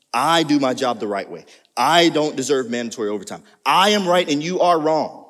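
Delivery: loud, self-righteous insistence; mock self-righteous worker; self-focused. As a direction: defend yourself, sure you're right. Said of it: "Notice again the focus on the self".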